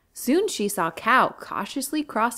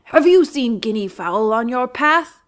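loud demanding lion voice; gruff lion; 3 semitones higher, 8 dB louder than usual. Acted. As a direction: interrogate the stranger. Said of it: "roared Lion".

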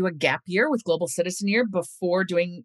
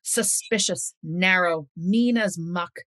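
folklore recitation. Acted. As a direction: savour each line like a fireside tale. Recites her mother's Yorkshire folklore poem.

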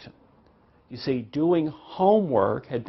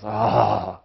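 imitated breathy groan of disappointment; acted sigh of a criticized kid; child's deflated sigh; 4 semitones lower, 4 dB louder than usual. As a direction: let out a mock discouraged "ah". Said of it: "and the child goes".

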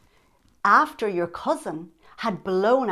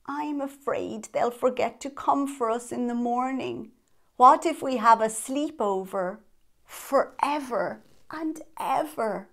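nervous; 3 semitones higher than usual. Acted. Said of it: "said in a nervous voice".

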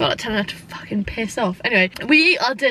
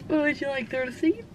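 softer, imitated Scottish accent; mock-Scottish polite question; attempted Scottish accent; 8 dB quieter than usual. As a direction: try the waitress's Scottish accent, quietly. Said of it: "From Scotland".

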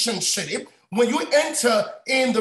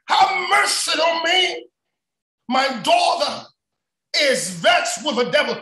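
raised preacher's plea, easing off at the end; pleading; 4 semitones higher, 3 dB louder than usual. Acted. Woman begging Jesus for her vexed daughter, pleading. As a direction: act out a cry for mercy. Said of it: "She's saying".

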